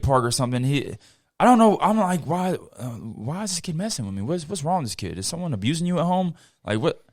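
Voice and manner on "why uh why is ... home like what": muttering to himself. Retold or imitated. Puzzled inner thoughts about the kid.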